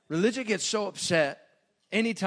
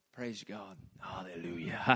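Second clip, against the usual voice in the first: mock Pentecostal praise; 7 semitones lower, 5 dB quieter, slower than usual. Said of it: "like a Pentecostal denomination".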